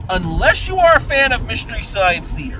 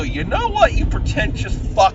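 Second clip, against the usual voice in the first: retorting; 2 semitones higher than usual. Retold or imitated. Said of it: "This is the film to look at and go".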